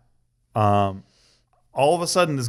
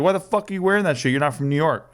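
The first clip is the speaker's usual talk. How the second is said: a hint of a pushy guy challenging him, pitch up at first; half-hearted retelling of a hostile stranger; mock aggressive stranger; 3 semitones higher than usual. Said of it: "he is very aggressive".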